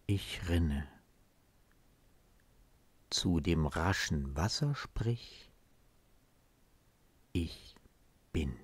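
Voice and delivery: measured poem reading with long pauses; solemnly paced verse, set apart by silences; poem recitation. Acted. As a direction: recite the verse line by line, letting each phrase settle. Recites a poem before explaining it.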